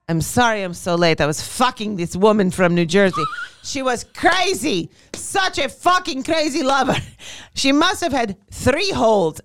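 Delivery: a loose, hammed-up Italian tour guide accent; half-hearted Italian accent; bad Italian accent. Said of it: "it wasn't a great accent".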